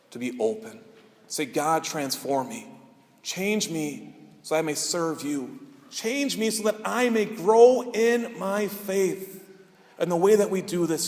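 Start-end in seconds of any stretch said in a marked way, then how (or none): 1.5-9.4 slow, drawn-out plea building in pitch; earnest prayer. Shown as a demonstration. Preacher showing believers what to say to God, earnest prayer. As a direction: pray slowly, rising into a heartfelt appeal.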